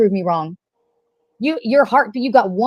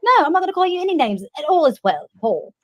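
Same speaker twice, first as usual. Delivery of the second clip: put-on British accent; 4 semitones higher than usual. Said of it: "is the British accent necessary?".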